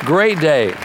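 emphatic preacher's exclamation; exulting. Real, not acted. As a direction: proclaim it with gusto to the church. Preacher exclaims, then repeats more softly.

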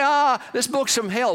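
mocking a scoffer's dismissal. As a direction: scoff at it like a skeptic. Voicing a scoffer.

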